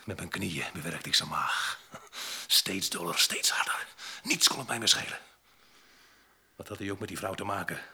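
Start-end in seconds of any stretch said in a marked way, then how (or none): 2.5-7.8 rising fury. Acted. Retelling the violent fight.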